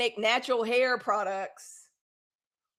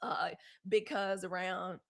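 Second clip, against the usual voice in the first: hushed plea; 3 semitones lower, 9 dB quieter than usual. Retold or imitated. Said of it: "I'd be like".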